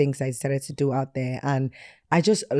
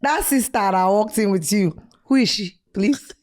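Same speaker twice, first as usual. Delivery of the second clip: hammed-up Nigerian accent, a bit higher; worst Nigerian accent; 5 semitones higher than usual. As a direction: challenge him in a heavy Nigerian accent. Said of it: "I put on the worst Nigerian accent".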